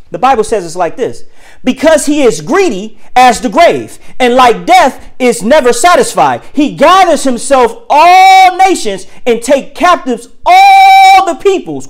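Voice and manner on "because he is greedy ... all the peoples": drawn-out preaching read, rising on the last words; slow scripture reading. Acted. Preacher reading scripture to the congregation, slow and building. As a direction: read the verse slowly, building at the end.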